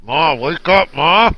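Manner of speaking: put-on excited kid calling Ma; excited child calling. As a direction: shout up the stairs like an eager child. Child calling mother on Christmas.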